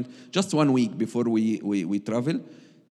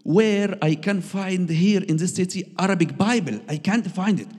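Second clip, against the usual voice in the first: high, loud, bold asking in the street; bold question; 10 semitones higher, 6 dB louder than usual. Retold or imitated. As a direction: call out boldly for an Arabic Bible. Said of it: "this man saying boldly".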